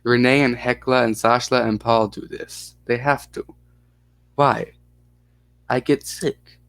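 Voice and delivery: put-on mildly Russian-accented child; hint of a Russian accent. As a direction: answer in broken English with a Russian accent. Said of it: "you like the Russian accent".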